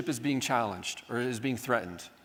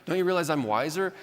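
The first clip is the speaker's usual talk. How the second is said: indignant offense; 4 semitones higher than usual. Retold or imitated. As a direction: play the proud know-it-all who takes offense. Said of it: "this offense of like".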